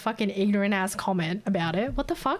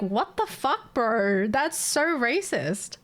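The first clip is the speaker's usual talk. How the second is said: retold indignant disbelief, pitched up; indignant retort; 3 semitones higher, much slower than usual. Answering a racist stranger, retold indignant disbelief. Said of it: "I'm like".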